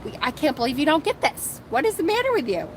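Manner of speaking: imitating Morgaine's exasperation, voice climbing; Morgaine's imagined frustrated outburst at Vivian; exasperated outburst. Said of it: "to Morgaine it felt like".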